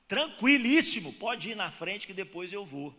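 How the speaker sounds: loud, high and cheerful promise; eager yes. Acted. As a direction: overeager son brushing it off. Eager first son answering father. (filho animado respondendo ao pai, alto e agudo)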